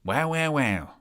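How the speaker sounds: drawn-out wailing put-on voice; impression of an exasperated friend; Josh impression. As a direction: stretch each word into a mock wail. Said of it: "That's my Josh impression".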